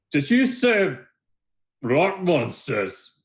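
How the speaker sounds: high-pitched, puzzled blacksmith voice; high, disbelieving query; incredulous blacksmith. Acted. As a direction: ask it high, stretching the last words. Another blacksmith asks in disbelief.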